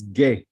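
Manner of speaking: "ge" as a hard g with a short e; letter sound demo. Shown as a demonstration. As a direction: sound out "ge" as one short syllable. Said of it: "we say the sound is".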